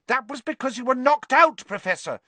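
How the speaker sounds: high, earnest insistence. A narrator's reading. Girl correcting her professor, earnest. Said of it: "said Hermione earnestly".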